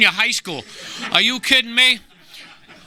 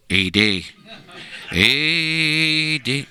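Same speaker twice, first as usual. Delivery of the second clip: alien voice; 2 semitones lower, much slower than usual. Retold or imitated. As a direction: croak it like the movie alien. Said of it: "He was going".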